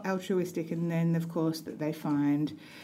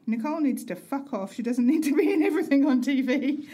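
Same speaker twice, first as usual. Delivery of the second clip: quoting husband; 5 semitones higher, 3 dB louder than usual. Retold or imitated. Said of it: "these are his exact words".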